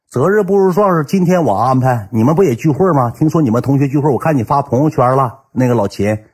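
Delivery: mock insistent offer; mildly hammed-up eager host; acting a buddy insisting he will arrange everything; pushy friend on phone.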